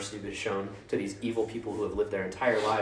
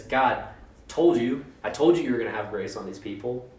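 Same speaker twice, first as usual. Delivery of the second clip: louder, exasperated told-you-so; Jonah's complaint; 6 dB louder than usual. Retold or imitated. Jonah snapping at God with an irritated told-you-so. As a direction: throw it back at God, irritated.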